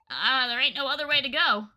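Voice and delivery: light Southern twang; folksy Southern guide; Southern accent. Acted. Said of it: "He really is Southern".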